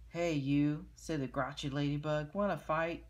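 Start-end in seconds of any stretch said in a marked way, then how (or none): 0.1-0.9 loud grouchy challenge; ladybug voice. Acted. 2.3-3.0 loud grouchy challenge; ladybug voice. Acted.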